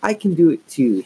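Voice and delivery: high, piercing insistence; shrill. A narrator's reading. Younger sister insisting she can do it too, shrill. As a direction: squeal it out high and pushy. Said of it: "she added shrilly".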